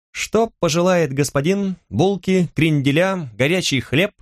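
a hint of a boy behind the counter; lightly voiced shop boy. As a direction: offer the wares in a lifted boyish voice. Boy shopkeeper greeting a customer.

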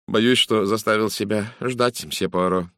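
mildly guilty, slowed apology; understated sheepishness, taking it slowly; apologetic. Acted. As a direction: apologise with a touch of embarrassment. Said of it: "виновато произнёс он".

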